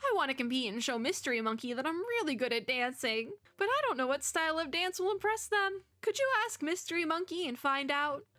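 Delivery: a hint of a nervous, eager dancer; lightly voiced eager Mo. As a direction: lightly play an insecure friend pleading. Plays Mo asking a favor.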